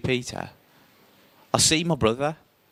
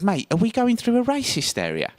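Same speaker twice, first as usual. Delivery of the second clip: nervous; 11 semitones higher than usual. Retold or imitated. Nervous question on the bus.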